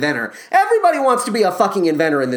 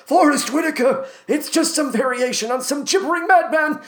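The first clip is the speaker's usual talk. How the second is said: high-pitched gibbering madman impression; Forrest Whitaker; 7 semitones higher than usual. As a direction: babble batty and high, like a crazed old inventor. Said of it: "time for my Forrest Whitaker impression".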